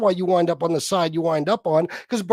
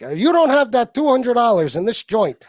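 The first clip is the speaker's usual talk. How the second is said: tough guy impression. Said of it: "It's exactly what he fucking sounds like".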